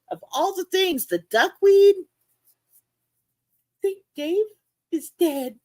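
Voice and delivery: high, small, sad voice; saddest little voice. Retold or imitated. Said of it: "it was the saddest little voice".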